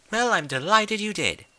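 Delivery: high, refined, worried lady voice; Rarity asks the distracted Rainbow, concerned. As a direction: ask with dainty concern. Rarity speaks.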